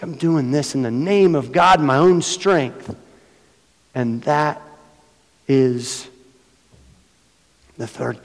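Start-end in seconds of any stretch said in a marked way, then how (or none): 0.0-3.0 hammed-up pious claim, higher; mock someone claiming God's name; mock self-righteous. Pastor mocking people who misuse God's name, mock pious.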